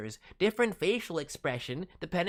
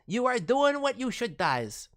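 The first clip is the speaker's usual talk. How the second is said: unvoiced playful whisper; 5 semitones higher than usual. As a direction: repeat it as a secret whisper.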